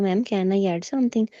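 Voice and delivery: slow, gently pleading ask; sweet polite request. Retold or imitated. Student asking the examiner for a chance, slow and sweet. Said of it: "मैंने ना फिर बड़े प्यार से request की".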